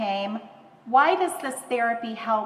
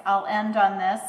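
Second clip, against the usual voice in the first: usual speaking voice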